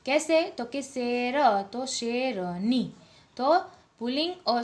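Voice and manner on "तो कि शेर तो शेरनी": शेरनी spelled out slowly, stressing नी; teacher stretches the suffix नी; slow teaching demo. Shown as a demonstration. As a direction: draw out शेरनी for the class. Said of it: "अंत में नी प्रत्यय जोड़ दिया जाता है".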